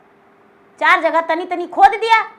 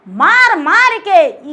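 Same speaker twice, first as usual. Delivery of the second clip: मार मार के drawn out slowly, each मार hit louder; slow emphatic; 2 semitones higher, 5 dB louder, much slower than usual. Acted. Servant proudly tells master how he swatted the flies, slow and loud. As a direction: beat out मार मार के slowly and loudly.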